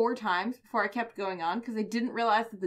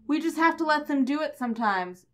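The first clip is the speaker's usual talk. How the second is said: lightly voiced higher-pitched girl; a hint of a counter girl, pitched up; restaurant girl; 5 semitones higher than usual.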